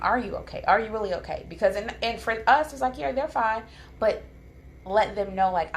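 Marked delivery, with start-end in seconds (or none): 0.0-1.4 higher-pitched, probing check-in; ask, then press on REALLY; earnest asking. Shown as a demonstration. Parent asking a child after a mishap, earnest. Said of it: "But ask them". 3.0-3.6 airy, high-pitched brush-off; dismissive. Shown as a demonstration. Parent thinking the child is fine, dismissive. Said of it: "it's dismissive".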